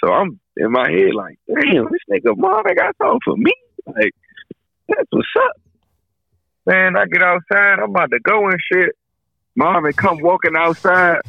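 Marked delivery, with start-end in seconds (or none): 1.5-5.5 high, eager thought; excited inner voice. Retold or imitated. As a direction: think it with high delight. Inner voice, excited about gift.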